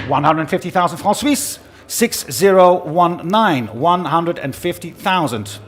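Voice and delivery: brisk rhythmic auction patter; fine art auctioneer. Acted. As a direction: call the bids steadily, pressing the room. Auctioneer calling bids live.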